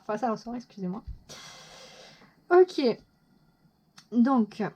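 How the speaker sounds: ordinary talk, nothing marked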